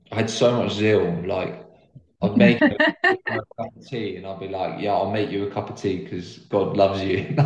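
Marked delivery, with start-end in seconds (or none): 4.8-7.5 laughing. Retold or imitated. Mocking his own overzealous self.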